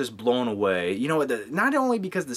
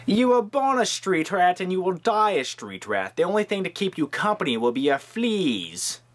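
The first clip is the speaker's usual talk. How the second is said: lightly voiced Jafar; 4 semitones higher than usual. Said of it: "Jafar was a badass".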